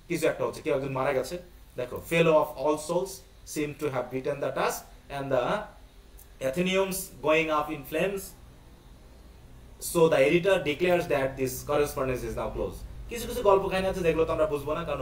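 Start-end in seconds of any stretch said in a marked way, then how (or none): 2.1-12.8 slow, deliberate read-aloud of a play; reading text aloud. Acted. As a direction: read it out word by word, slowly. (ধীরে ধীরে নাটক পাঠ)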